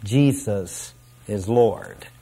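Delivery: slow, low and soft, petering out; half-hearted, unenthusiastic mumbled declaration; trailing away. Retold or imitated. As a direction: let the voice sag and fade reluctantly. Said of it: "they will trail away".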